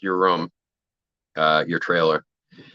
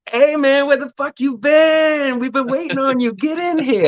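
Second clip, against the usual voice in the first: Machete's greeting; 3 dB louder than usual. Retold or imitated. Machete greeting the new actor, high and loud mock voice. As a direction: call him in like an old buddy, way up high. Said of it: "And he's like".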